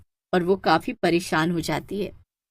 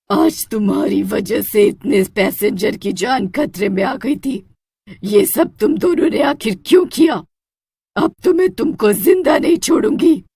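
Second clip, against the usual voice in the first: furious shout; 4 dB louder than usual. Acted. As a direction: yell at the begging culprits. Witch shouts at culprits.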